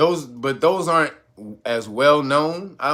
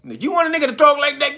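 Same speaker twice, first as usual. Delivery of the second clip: ordinary delivery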